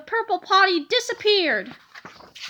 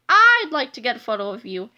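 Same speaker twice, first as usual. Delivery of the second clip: nervous; 5 semitones lower, 5 dB louder than usual. Acted. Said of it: "said Harold nervously".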